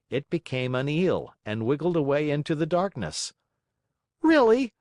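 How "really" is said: much higher, loud furious cry; blind with rage. Acted. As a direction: explode in anger. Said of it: "blind with rage".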